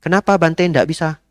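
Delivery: lightly imitating the lady; pushy lady. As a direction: demand the reason. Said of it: "Bu, jam empat saya ndak bisa".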